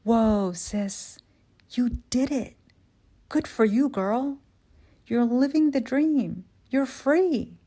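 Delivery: high, bright cheering on the phone; excited sister. Retold or imitated. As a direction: cheer her on like a proud sister. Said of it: "Maysoon responds".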